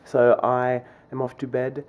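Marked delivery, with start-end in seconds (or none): 1.1-1.8 softer, murmured late-night talk; quiet bedtime murmur; oddly quiet voice. Real, not acted. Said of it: "I don't know why I'm talking like this".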